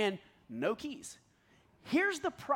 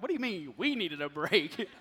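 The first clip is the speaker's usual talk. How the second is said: wife's mock look; 4 semitones lower than usual. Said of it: "felt her look at me like".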